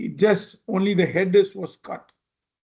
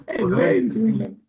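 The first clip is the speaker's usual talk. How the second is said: higher-pitched mock protest; mock indignant outburst; 3 semitones higher than usual. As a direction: act out someone indignantly calling them out. Acts out somebody snapping back.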